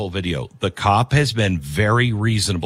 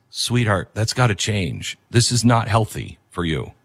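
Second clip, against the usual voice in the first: gentle honest sweetheart; 2 semitones lower than usual. Retold or imitated. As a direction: ease the hard news to your love. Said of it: "and says".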